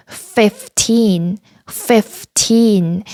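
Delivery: slow "fifteen" with careful F sounds; F pronunciation demo. Shown as a demonstration. Teacher drilling fifteen for learners, careful F pronunciation. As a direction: split "fifteen" clearly, F distinct from P. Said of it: "F 발음 주의해서".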